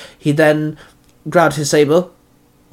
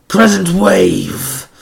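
slow, louder battle cry; drawn-out, raised war cry; growled attack call; 4 semitones higher, 4 dB louder, much slower than usual. A narrator's reading. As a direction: roar out the attack name. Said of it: "Zanaki growled".

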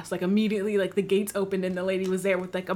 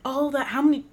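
mock incredulous; 5 semitones higher than usual. Mock questioning fans' spending.

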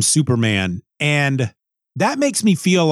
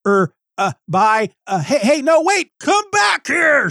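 stammering then high shrill call; hammed-up flustered shout; mock scream; 11 semitones higher than usual. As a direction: yell after him, rising in panic. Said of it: "she screams".

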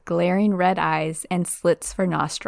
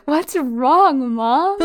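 dog's voice; 7 semitones higher, 6 dB louder, much slower than usual. Retold or imitated. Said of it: "Trevor's probably like".

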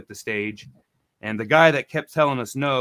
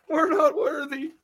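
high, slower, breaking into a laugh; laughing mock worship; slower than usual. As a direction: let the worship dissolve into laughter. Bowing to the cop.

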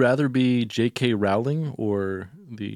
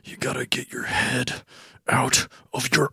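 exasperated; 3 dB louder than usual. Acted. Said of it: "Just exasperated".

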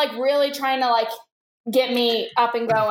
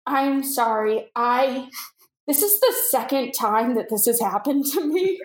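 retold tearful apology. Crying prank victim apologizing to producers, understated upset. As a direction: mildly act out an emotional confession. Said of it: "I just start crying again".

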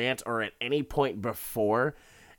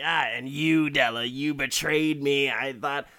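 mildly raised, betrayed accusation building higher; imitated angry reproach, rising at the end; mock yelling; 4 semitones higher than usual. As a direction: act out a wounded husband's rant. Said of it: "He's just yelling".

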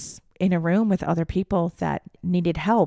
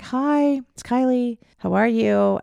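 higher, sing-song hello; bright gentle greeting; 6 semitones higher, 4 dB louder than usual. Retold or imitated. Daughter to confused mom, high gentle greeting. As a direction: greet her like a frightened child.

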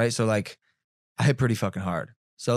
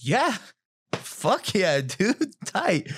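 higher, pumped-up bro reply; mock hyped-up; 5 semitones higher, much slower than usual. Boxer answering her demand, mock hyped-up. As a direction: play up eager approval in short bursts.

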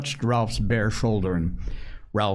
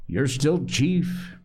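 slow, higher-pitched insistence; hint of a boy insisting, drawn out; lightly voiced Piggy; 6 semitones higher, slower than usual.

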